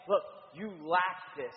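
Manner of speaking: understated harsh correction. Retold or imitated. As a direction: scold them without raising your voice. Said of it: "it's a harsh tone".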